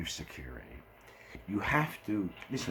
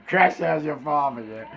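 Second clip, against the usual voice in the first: raised, louder agitated rant; fed-up confrontation; 8 semitones higher, 4 dB louder than usual. Retold or imitated. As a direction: get worked up, pitched high and loud. Fed-up speaker grabs man, confronts him.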